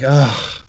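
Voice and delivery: long exasperated "ugh"; imitated sigh. Call center guy stopped by a caller, imitated exasperated sigh. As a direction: let out a mock weary groan. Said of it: "he had like".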